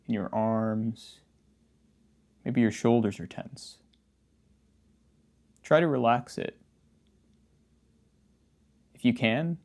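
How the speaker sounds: casual, understated meditation guidance with long pauses; easygoing meditation-teacher delivery, slightly subdued; guided meditation. Acted. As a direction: gently guide the listener through practice, leaving silences. Leads a guided posture meditation.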